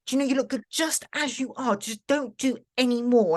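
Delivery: retold well-meaning concern; mock pleading. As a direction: gently plead with her to stop. People pleading with her, imitated.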